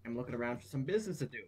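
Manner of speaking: put-on country accent. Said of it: "I'm losing my country accent as I speak".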